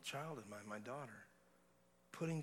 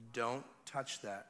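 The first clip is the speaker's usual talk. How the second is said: firm warning; slower than usual. Retold or imitated. Father warning baby daughter.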